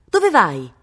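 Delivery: loud call from afar; shouted question. A narrator's reading. Cosimo to Viola at the departing carriage, shouting. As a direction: shout after someone who is leaving. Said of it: "gridò".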